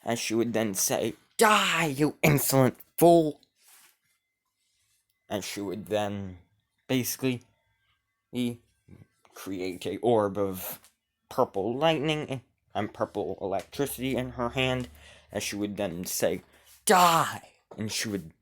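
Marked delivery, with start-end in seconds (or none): 1.4-3.4 higher, louder screaming curse; furious shout. Acted. Transformed ghost queen attacking King Arthur, furious high shout. 16.9-17.5 loud, high battle scream; furious shout. Acted. Ghost queen casting purple lightning at King Arthur, screaming.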